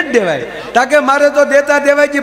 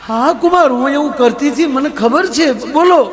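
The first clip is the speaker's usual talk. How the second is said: mother-in-law voice; 3 semitones higher than usual. Acted. Mother-in-law answers son-in-law.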